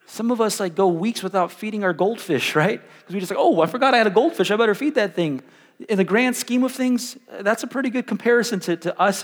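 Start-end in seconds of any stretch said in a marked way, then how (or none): 3.4-5.4 quick, raised mock realization; sudden remembering. Goldfish owner remembering to feed it, quick mock alarm. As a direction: blurt it like a forgotten chore.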